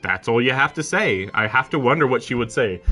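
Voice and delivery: loud, emphatic complaint; frustrated insistence. Real, not acted. Player telling the character what to say, loudly exasperated. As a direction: argue it loudly at the game.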